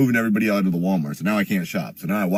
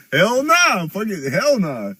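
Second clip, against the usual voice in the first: inner hell nah; 8 semitones higher, much slower than usual. Retold or imitated. Inner reaction to parole question.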